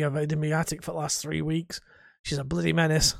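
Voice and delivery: strained character voice, complaining; throat-straining put-on grumble about the ex-wife; ex-husband Harold. Shown as a demonstration. Gamer demos hounded ex-husband character, strained grumble. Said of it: "I can't do the voice for very long".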